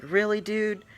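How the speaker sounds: high-pitched incredulous question; retold disbelief. Prankster hearing the cops were called, incredulous.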